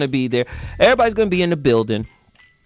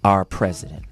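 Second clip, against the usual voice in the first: put-on older man; 6 semitones lower than usual. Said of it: "He said".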